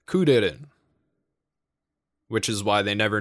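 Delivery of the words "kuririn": Kuririn as "Kudidin", Rs tapped lightly; Japanese R. Shown as a demonstration. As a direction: tap each R in Kuririn with the tongue tip.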